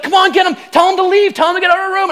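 high, insistent imitation of a panicky wife; wife freaking out. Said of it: "freaking out".

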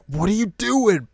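high, slow, baffled question; incredulous Mio. Retold or imitated. Imitating Mio reacting to the roll, high and baffled. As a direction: ask it like you can't believe your eyes. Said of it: "Mio's like".

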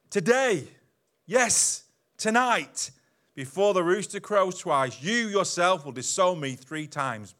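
loud, slow, pressing warning; earnest Jesus warning; emphatic warning. Acted. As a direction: drive the prophecy home. Jesus warning Peter, acted.

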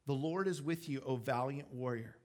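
understated, sincere address; sincere pronouncement. Acted. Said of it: "I really do think God is speaking to him".

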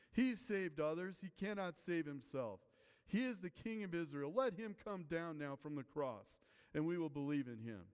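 lightly acted taunt, easing toward the end; mild mockery. Priests and elders mocking Jesus on the cross, mildly scornful. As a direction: read it with a touch of scorn. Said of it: "the scribes and the elders mocked".

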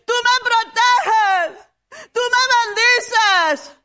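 impassioned preaching, driving each line hard; fervent preaching. Acted. Preacher urging the church to confess aloud, fervent. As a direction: preach it to the congregation with fire.

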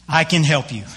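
lightly voiced God; a hint of divine authority; booming voice of God. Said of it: "this loud booming voice".

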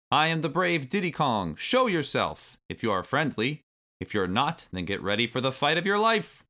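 high, loud boastful shout; brave shout. A narrator's reading. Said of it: "shouted in his loudest voice".

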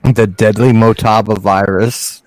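deadly Motaba virus said slowly and distinctly. Real, not acted. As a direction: repeat "deadly Motaba virus" slowly for someone who missed it. Repeats it after "The what?.

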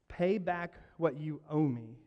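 slow, hard demand. Acted. Servant demanding his debt from a fellow servant. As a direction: press each word like a threat. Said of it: "he demanded".

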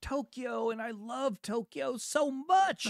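sending up a starry-eyed anime fan; hammed-up gush of a Tokyo-loving fan; mock weeb fan. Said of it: "bunch of weebs are just going".

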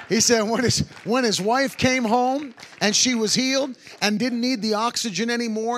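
excited preaching. Real, not acted. Excited retelling of the miracle.

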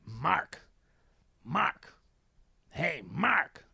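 imitated stranger hailing someone; voice calling out. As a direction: call the name to get someone's attention. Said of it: "I just hear this voice".

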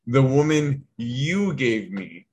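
"you" drawn out and leaned on; slow line, land pointedly on "you"; blaming stress on YOU. Retold or imitated. Adam putting the blame on God, stress on "you". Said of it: "as if to put the blame on God".

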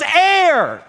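high loud gasp for air, laughing; gasping shout. Retold or imitated. Half-drowned kid gasping for air, laughing. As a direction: burst up out of the water.

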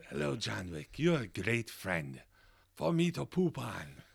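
a light, lightly voiced insult-comic dog; Triumph the Comic Insult Dog. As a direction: toss off a loose impression of a wisecracking puppet dog. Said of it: "now it's Triumph the Comic Insult Dog".

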